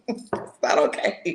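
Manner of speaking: slow, drawn-out comic protest; mock indignant refusal. Refusing to let the friend off, mock indignant refusal.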